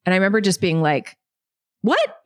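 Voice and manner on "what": high-pitched, incredulous "What?"; stunned surprise. Retold or imitated. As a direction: re-enact being caught totally off guard. Retelling her stunned reaction to offer.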